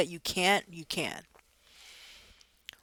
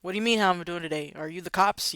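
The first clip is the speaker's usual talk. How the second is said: suspicious client; faster than usual. Retold or imitated. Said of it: "that doesn't sound like".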